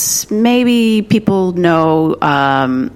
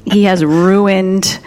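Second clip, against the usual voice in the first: laughing; much slower than usual. Real, not acted. Laughing about Kevin Spacey.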